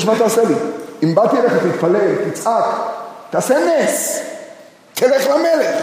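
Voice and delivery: a mother begging the prophet to act; desperate widow. Acted. Voicing the widow's demand. (אלמנה נואשת מתחננת, הקול עולה)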